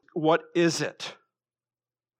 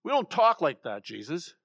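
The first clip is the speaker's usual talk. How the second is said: reprimand; 2 semitones higher than usual. Acted. Peter correcting Jesus over his grim prediction, mock reprimand. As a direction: play at telling someone off. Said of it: "that's a, that's a reprimand".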